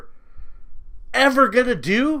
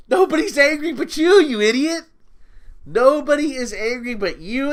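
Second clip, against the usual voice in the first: angry retort; 6 semitones higher than usual. Real, not acted. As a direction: throw it right back at him. Snapping back at the critic.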